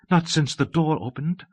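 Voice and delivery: high, breathless explanation. A narrator's reading. Abbess unable since the door opened, breathless. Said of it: "said the abbess breathlessly".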